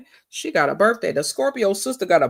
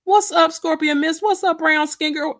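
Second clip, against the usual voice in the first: high, louder call-outs; hyped greeting; 9 semitones higher, 3 dB louder than usual. Real, not acted. Welcoming chat viewers as they arrive, high and lively. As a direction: greet each viewer with a lift.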